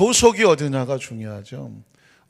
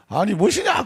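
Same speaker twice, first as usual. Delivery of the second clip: Jeolla dialect; 7 semitones higher, 3 dB louder than usual. Retold or imitated. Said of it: "전라도인가 보네".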